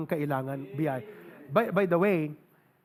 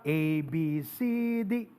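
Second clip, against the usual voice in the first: alphabet recital; 4 semitones lower than usual. Shown as a demonstration. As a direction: recite each letter by its name. Recites alphabet as taught in school.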